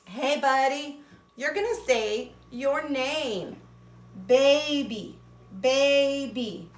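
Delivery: a hint of a cartoon letter; voicing the letter Y. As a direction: speak as the Y egging on its buddy. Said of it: "he tells my A".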